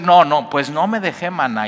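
presumiendo. Retold or imitated. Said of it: "Y tú puedes decir".

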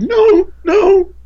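high, loud, crying yes; tearful yes. Retold or imitated. The woman answering through tears, high and crying. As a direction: break into a high sob on each yes. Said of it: "She said".

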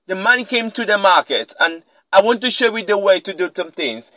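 lightly imitated Ghanaian or South African accent. Shown as a demonstration. Speaker showing how they speak, Ghanaian or South African accent. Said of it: "a Ghanaian or a South African speaking".

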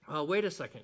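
lightly voiced Mary, puzzled but calm; Mary's gentle question. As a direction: ask it plainly, just wanting to understand. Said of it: "Hers was more biologically questioning".

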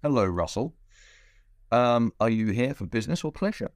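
a hint of an officious airport security officer; lightly voiced border guard, polite and routine; airport security dude. Host playing airport security questioning Russell, lightly voiced. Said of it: "I'll pretend that I am the, the airport security dude".

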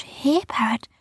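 high sing-out to a pet; coaxing. A narrator's reading. Rowan lures the parrot with fruit, high coaxing.

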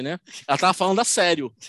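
ordinary talk

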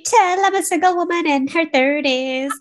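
laughing, high and bright. Real, not acted. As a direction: laugh through a self-mocking joke. Laughs at own joke.

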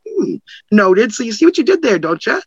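coolly pointed, lightly knowing rebuke; calm and knowing. Shown as a demonstration. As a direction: let them see what they did, calmly. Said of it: "stay calm".

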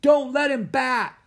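high, loud, slow yell; heckler shouting. A narrator's reading. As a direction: jeer from the stands. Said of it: "someone shouted".

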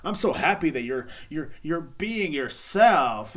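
hammed-up cheering, dragged out at the end; mock gushing fan. Mocking fans who cheer the celebrity, in a gushing voice. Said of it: "you fucking people are on there going".

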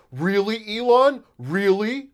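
high, loud, rising mocking disbelief; mocking outraged users at Elon, climbing high and loud; mock indignant tweeters. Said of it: "they're like".

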